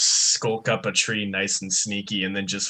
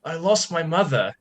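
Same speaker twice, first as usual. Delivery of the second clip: much higher, small and pleading; pitiful lost wanderer; 9 semitones higher than usual. Acted. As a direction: play a tiny lost soul begging for sympathy. Player voices Raptor.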